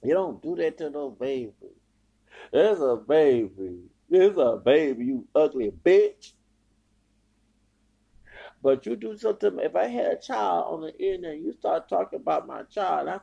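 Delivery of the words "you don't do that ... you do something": real anguish turning to loud anger; upset, near tears. Real, not acted. Reproaching a woman who insulted a baby, anguished. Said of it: "I'm about to cry".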